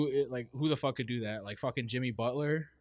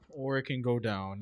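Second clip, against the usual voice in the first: pitch going down. Shown as a demonstration. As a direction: let the pitch sink towards "down". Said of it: "what I mean by pitch".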